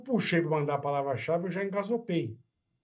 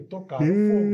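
panicked cry; 4 semitones higher, 4 dB louder than usual. Retold or imitated. Retelling the coffin set on fire.

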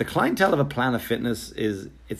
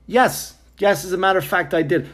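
sarcastic yes; 8 semitones higher, 4 dB louder than usual. Retold or imitated. Sarcastic reply to hotel clerk.

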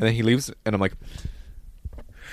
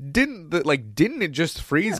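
innocent question; 5 semitones higher, slower than usual. Retold or imitated. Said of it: "I went".

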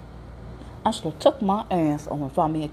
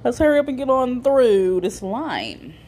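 impatient aside; 7 semitones higher, 4 dB louder than usual. Retold or imitated. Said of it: "I'm like".

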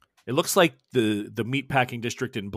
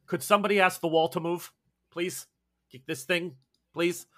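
annoying whiny voice; 6 semitones higher than usual. Acted. Annoying voice pleads to move wall.

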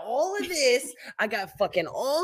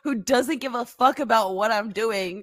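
mock Spider-Man pitch; 6 semitones higher, 5 dB louder than usual. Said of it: "he's like".

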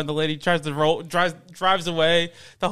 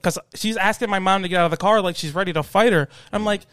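usual speaking voice

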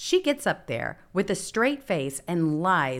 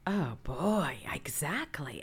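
whispered; 2 semitones lower, 5 dB quieter, slower than usual. Real, not acted. Reacts softly.

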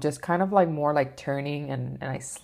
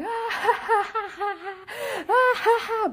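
very high cackling ha-ha-ha; imitated hysterical laugh. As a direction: act out a man's uncontrolled laughing fit. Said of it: "he's just laughing like".

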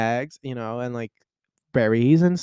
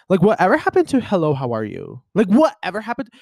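mock outrage; 6 semitones higher, 4 dB louder than usual. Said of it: "I told them".

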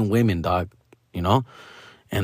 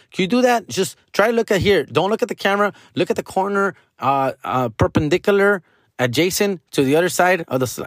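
higher-pitched teacher instructions; 5 semitones higher, faster than usual. Retold or imitated. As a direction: rattle off fussy directions. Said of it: "Like, shit like that".

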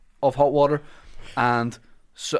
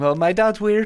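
awkward shout; 8 semitones higher, 4 dB louder than usual. Retold or imitated. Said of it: "going on after that and going".

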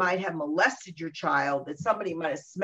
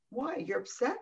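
usual speaking voice

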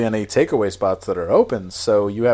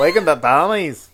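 higher-pitched, struggling attempt at a Scottish accent; one more hammy go at a Scottish accent; 5 semitones higher, 4 dB louder than usual. Shown as a demonstration. Podcaster retrying despite giggles, put-on Scottish accent. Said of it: "I can't do my".

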